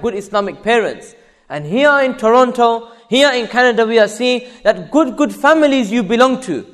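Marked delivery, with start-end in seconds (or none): 1.5-6.7 higher, raised preacher's voice; impassioned preaching. Acted. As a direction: press it home to the congregation.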